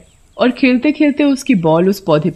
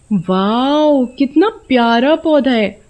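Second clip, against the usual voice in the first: higher-pitched admiring "wow"; delighted wonder; 5 semitones higher, slower than usual. Acted. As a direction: marvel at a lovely find. Sona admires an unusual plant. (खुशी भरी हैरानी)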